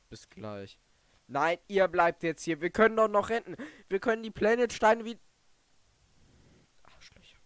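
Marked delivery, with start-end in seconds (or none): 1.3-5.2 desperate plea. Real, not acted. Pleading with leaving characters. 6.8-7.4 whispered curse. Real, not acted. Muttered insult at characters.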